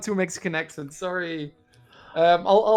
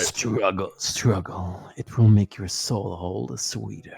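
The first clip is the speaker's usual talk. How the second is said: low menacing voice; 7 semitones lower, slower than usual. Shown as a demonstration. Voice line demo, low.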